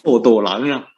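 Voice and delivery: 火斗狼 said in Hokkien, the local Fujian pronunciation; Fujianese word. Shown as a demonstration. Preacher teaching the congregation the Fujian word, in Hokkien. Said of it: "福建话叫火斗狼啊".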